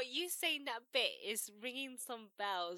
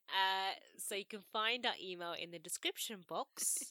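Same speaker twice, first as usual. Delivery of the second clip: slower, each word placed; slow careful repeat; slower than usual. Real, not acted. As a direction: say it again slowly, carefully. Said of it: "I'll say that again".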